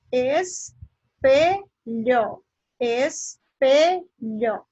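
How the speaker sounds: espelho drawn out as es-PE-lho; stress on middle syllable. Shown as a demonstration. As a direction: sound out espelho slowly, syllable by syllable, leaning on pe. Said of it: "está pronunciada com mais intensidade".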